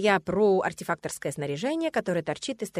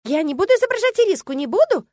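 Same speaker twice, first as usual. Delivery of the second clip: much higher, loud protesting horse; squabbling mare; 13 semitones higher, 11 dB louder than usual. A narrator's reading. Mare refusing to play Iriska, loud squealing protest. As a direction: kick up a fuss like a stubborn mare. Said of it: "скандалила кобыла".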